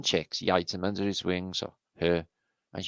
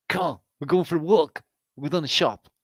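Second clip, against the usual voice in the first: a bit higher, cheery call to the cub; lightly voiced mother bear; 8 semitones higher, 3 dB louder than usual. Mother bear calling her cub for a walk, light cheery voice. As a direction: call the cub along brightly.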